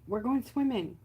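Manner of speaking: high, bright-pitched coaxing call; sing-song coax to come swim. Pretend. Voicing a pet-like coaxing.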